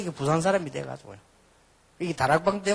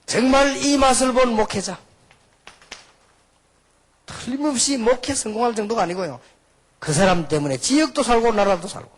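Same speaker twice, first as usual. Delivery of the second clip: raised, high preaching voice; forceful preaching; 7 semitones higher, 6 dB louder than usual. Acted. Preacher telling congregation what a pastor can do, forceful preaching. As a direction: proclaim it high and strong to the room.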